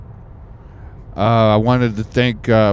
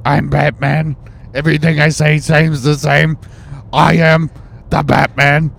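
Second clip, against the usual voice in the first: Kiwi Batman voice; 2 semitones higher than usual. Shown as a demonstration. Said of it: "do your Batman".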